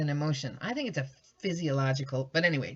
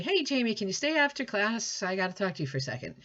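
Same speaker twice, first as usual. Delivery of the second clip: casual call-out; 5 semitones higher, faster than usual. Shown as a demonstration. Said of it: "Maybe I say".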